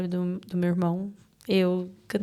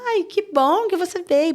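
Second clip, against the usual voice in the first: tia alegre; 9 semitones higher, 5 dB louder than usual. Retold or imitated. Tia acolhendo com alegria.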